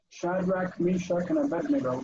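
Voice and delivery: Shadrach, Meshach, and Abednego in familiar English form; anglicised list of the three names; English pronunciation. Shown as a demonstration. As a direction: recite Meshach as MEE-shak, Abednego as one word. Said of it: "we always run them together as one word".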